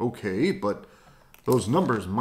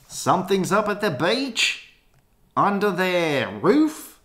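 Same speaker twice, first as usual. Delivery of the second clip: much higher, louder alarm; high excited voice; 10 semitones higher, 4 dB louder than usual. Acted. Character panicking about fleas, high and loud. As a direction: sound the alarm in a squeaky voice.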